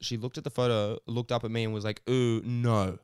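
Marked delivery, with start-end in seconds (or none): 2.1-3.0 mock girl's refusal. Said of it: "They were her words".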